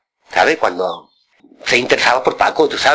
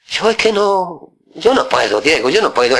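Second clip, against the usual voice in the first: put-on scared boy; 5 semitones higher than usual.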